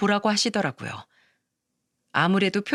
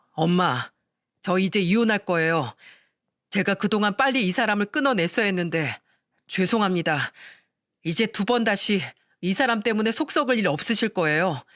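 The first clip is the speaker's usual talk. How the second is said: calm and matter-of-fact. Acted. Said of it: "시동생이 덤덤하게 말을 하는데".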